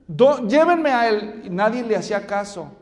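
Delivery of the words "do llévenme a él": acted urgent plea. Acting Bartimeo's plea to the crowd.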